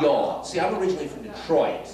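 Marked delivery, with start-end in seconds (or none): 0.0-0.4 Southern y'all attempt. Shown as a demonstration. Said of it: "Is that it?".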